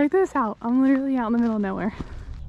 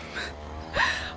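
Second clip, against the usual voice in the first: breathless laugh; 8 dB quieter than usual. Real, not acted. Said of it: "I'm out of breath".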